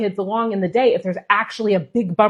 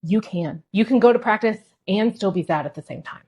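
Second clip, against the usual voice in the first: motivational. Shown as a demonstration. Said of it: "It's more motivational".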